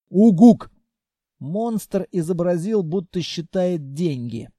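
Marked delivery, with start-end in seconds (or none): 0.1-0.7 loud little monster hoot; monster grunt. A narrator's reading. Senya the monster protests to his friends, loud creature hoot. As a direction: blurt it like a creature. Monster's one-word utterance.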